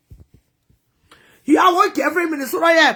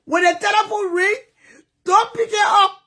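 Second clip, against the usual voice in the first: raised, tearful order not to answer; retold order; 4 semitones higher than usual. He orders her not to answer the phone, raised and tearful. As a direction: warn her off the phone, voice breaking. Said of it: "He said".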